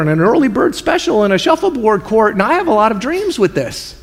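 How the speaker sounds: a hint of a self-justifying rich man, hedging and stalling; rambling rich man. Rich man talking himself into keeping it all, lightly voiced and dithering. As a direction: talk yourself into hoarding, dithering.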